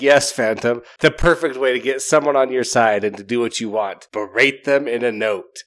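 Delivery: dry mock praise, slowing at the end; lightly sarcastic aside to the Phantom. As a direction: needle him with fake approval.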